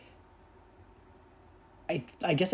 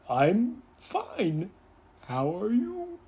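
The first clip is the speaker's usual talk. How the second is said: higher, breezy mock-casual reply; imitating a nonchalant guy; 7 semitones higher, much slower than usual. He brushes off her concern, breezy and higher. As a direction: shrug it off like nothing happened. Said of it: "It was just like".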